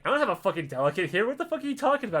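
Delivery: hammed-up angry bureaucrat; irritated official. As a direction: snap back at a nonsense phone call. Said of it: "The guy's like".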